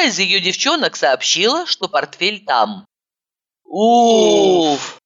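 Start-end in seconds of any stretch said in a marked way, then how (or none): 3.6-5.0 relieved sigh. A narrator's reading. Both women relieved the briefcase is found, sighing. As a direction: let the tension go in one sigh. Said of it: "вздохнули мы с Ивановой".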